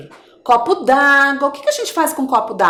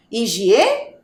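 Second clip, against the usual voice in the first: "Higiene" with hi-gi-e rising, long gap, then ne; syllable by syllable. Shown as a demonstration. Teacher prompting for the missing syllable, syllable by syllable. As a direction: leave a gap in "Higiene" before ne. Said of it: "Qual é a sílaba que está faltando".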